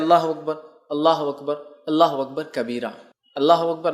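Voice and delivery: measured, devout chanting of the takbir; takbir recitation. Shown as a demonstration. Teacher showing listeners the Eid takbir, devout chant. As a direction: recite each Allahu akbar steadily, as in the mosque. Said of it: "تیسرا آپ جو کر سکتے ہیں".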